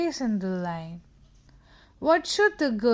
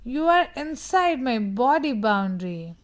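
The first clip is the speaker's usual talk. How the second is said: loud, firm stop with a raised pitch; 4 dB louder than usual. Shown as a demonstration. Child tells someone to leave their body boundary, loud and firm. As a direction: call out stop and set your boundary. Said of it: "You can say".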